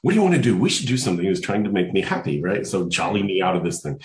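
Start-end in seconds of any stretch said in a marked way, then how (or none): 0.0-1.2 high, loud, bouncing like a Labrador puppy; a puppy begging to play; eager puppy. Retold or imitated. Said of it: "like a little Labrador puppy".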